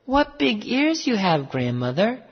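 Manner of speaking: put-on high exclaiming girl's voice; amazed little girl. A narrator's reading. Girl at the bedside, high wondering voice. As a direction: marvel high, then drop on the name. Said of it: "she said".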